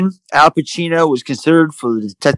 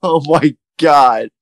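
after laughing hard; 2 semitones lower than usual. Real, not acted. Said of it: "wiping tears from my eyes".

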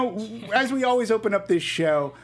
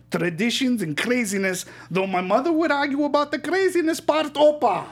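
hammed-up Greek uncle voice; Greek accent. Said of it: "in my Greek accent".

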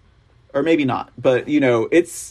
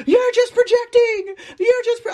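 far higher, whiny mocking lefty voice; mocking a lefty who cries projection; 4 dB louder than usual. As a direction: send up the accusing lefty, way up high. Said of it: "they're like".

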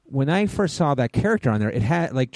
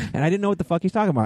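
ordinary talk

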